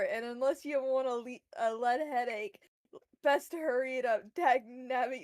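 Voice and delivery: put-on Southern accent. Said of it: "the dramatic Southern accent".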